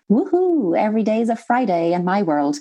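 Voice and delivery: put-on high, whooping carefree child voice. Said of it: "carefree child voice".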